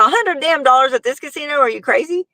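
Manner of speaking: high, incredulous retort; mock outrage. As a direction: act scandalised at the sum. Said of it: "I said".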